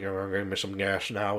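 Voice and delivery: low, thick, muffled mumble. Imitating the way a man really talks: mumbling through his chin. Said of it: "he kind of mumbles through his third chin".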